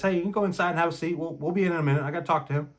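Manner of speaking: quick, firm but civil; demonstrating the tone used on the wife, firm; firm polite dismissal. Shown as a demonstration. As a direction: repeat it calmly to show the tone. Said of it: "in that tone of voice".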